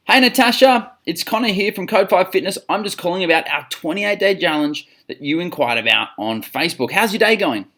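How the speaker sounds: upbeat sales caller. Shown as a demonstration. Gym coach demonstrating a call to a new lead, upbeat phone greeting. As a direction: open the call with an upbeat hello. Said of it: "when they pick up, you say".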